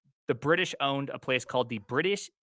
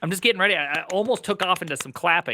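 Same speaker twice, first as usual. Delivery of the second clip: louder, higher, bursting with excitement; can barely sit still, ready to clap; giddy and pumped; excited; 6 semitones higher, 5 dB louder than usual. Real, not acted. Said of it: "Me being excited".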